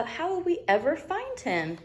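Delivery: mildly worried dad; dismayed papa. Acted. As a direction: ask it in gentle despair.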